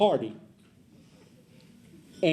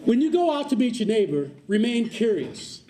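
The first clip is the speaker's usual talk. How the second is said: higher and louder, slowing on "remain curious"; louder repeat for the other side; 5 semitones higher than usual. Shown as a demonstration. Speaker repeating the point to the side that wasn't listening, louder and higher. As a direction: project it so the far side finally hears. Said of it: "so I'm gonna say it to this side".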